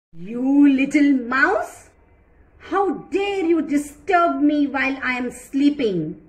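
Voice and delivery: loud roaring lion scolding the mouse; angry lion. Acted. Lion scolds the little mouse who woke him, angry and loud. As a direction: growl it out as the furious king. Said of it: "he got so angry".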